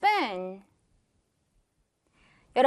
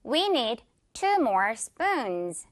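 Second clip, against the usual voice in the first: slow model repeat; much slower than usual. Shown as a demonstration. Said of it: "one more time".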